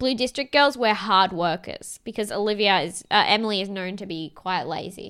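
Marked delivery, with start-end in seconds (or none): none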